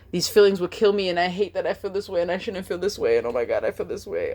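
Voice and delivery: lightly acted despairing self-talk, falling in pitch; acted anxious spiraling. Acting out spiraling anxious thoughts.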